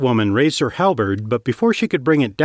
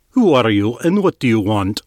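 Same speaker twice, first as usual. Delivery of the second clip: demanding. Acted. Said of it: "he demanded in their language".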